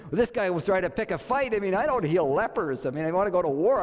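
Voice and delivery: lightly voiced king protesting an absurd request; indignant king. King of Israel suspects the letter picks a fight, indignant.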